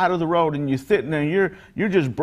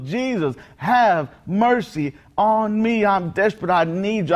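retold scream; 5 semitones higher, slower than usual. Preacher acts the blind man yelling to Jesus, high retold cry. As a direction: imitate a desperate cry for mercy, pitched up. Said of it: "he screams, he yells".

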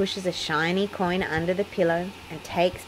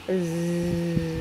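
snoring. A narrator's reading. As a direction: drift off into a gentle snore. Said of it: "snores Peppa".

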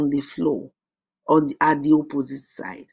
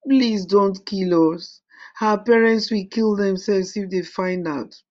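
slow, higher pleading; begging boy; 4 semitones higher, 3 dB louder than usual. A narrator's reading. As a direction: plead for your life. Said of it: "cried Akatapi".

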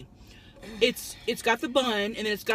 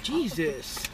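talking around a cigarette; cigarette in mouth; 4 semitones lower than usual. Real, not acted. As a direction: lips clamped on cigarette. Seen 0: Driver talks with a cigarette held between her lips throughout.

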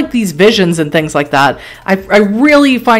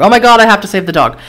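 excited; much faster than usual. Real, not acted. Player reacts to dog in danger.

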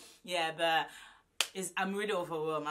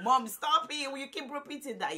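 lightly voiced son; 9 semitones higher, 8 dB louder than usual. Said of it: "M J is like".

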